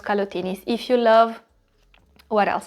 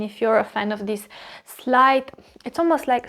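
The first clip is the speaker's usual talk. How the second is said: talking with a hair in her mouth. Real, not acted. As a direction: speak around a hair caught in your mouth. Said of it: "I have a hair in my mouth".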